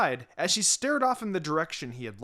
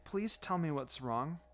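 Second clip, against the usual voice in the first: pleading; 7 dB quieter than usual. Acted. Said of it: "she pleaded".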